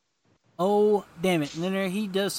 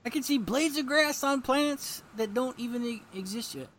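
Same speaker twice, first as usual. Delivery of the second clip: grand villain boast; 7 semitones higher than usual. Acted. Villain boasts of seeing dimensions.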